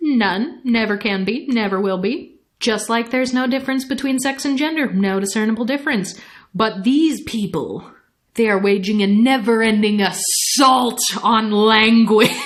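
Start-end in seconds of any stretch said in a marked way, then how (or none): 6.5-12.3 mock-emphatic delivery, put on, slower. Quoting a man's tirade about language to mock it, mock-emphatic.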